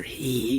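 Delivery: brief imitation of a sinister cackle; sinister laugh. Recalling the voice on the phone line, sinister laugh imitated. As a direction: sketch a sinister "hee" laugh. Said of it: "that type of sinister laugh".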